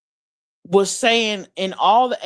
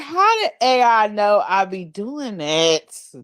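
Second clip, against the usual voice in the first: laughing disbelief. Retold or imitated.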